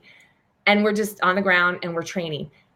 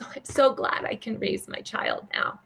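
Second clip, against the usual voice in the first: softer, whispered through imitated tears; tearful relief; 3 semitones higher, 5 dB quieter than usual. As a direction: breathe it out, relieved and near tears. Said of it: "and she just starts crying".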